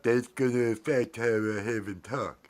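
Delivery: put-on puppet voice; pumpkin character voice. Host trying out a voice for pumpkin puppet, playful character voice. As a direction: talk in the pumpkin's voice.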